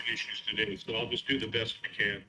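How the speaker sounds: choppy breaking-up connection. Real, not acted. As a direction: voice cutting in and out. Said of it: "you're sounding like you're breaking up a little bit".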